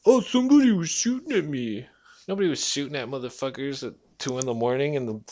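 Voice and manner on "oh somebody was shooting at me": higher mock whine; quoting the stranger's lie, mocking; mocking the liar. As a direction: sneer his lie back. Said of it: "lie right to my face".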